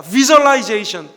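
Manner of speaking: "visualization" stretched slowly and loud; repeat-after-me demo. Shown as a demonstration. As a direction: model "visualization" loudly, syllables drawn out. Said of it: "영어도 한번 따라해봅시다". ("visualization"을 크고 느리게 따라 읽히기)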